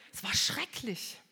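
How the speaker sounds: whispered, slow and hushed; a pained whisper remembering it. Real, not acted. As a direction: barely breathe the words out. Retelling father crying, whispered.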